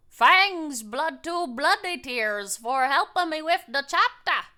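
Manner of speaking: hammy, unconvincing ogre impersonation; a hint of cartoon ogre, badly done; failed Shrek. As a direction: attempt Shrek and miss. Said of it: "that doesn't sound like Shrek".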